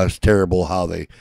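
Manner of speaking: hammed-up hand-wringing commentator; mock newscaster. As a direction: parody the fake pity of the news. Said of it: "talking about".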